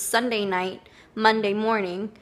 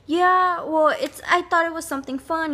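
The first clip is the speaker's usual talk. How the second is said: manager's voice; 7 semitones higher than usual. Retold or imitated. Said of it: "She says".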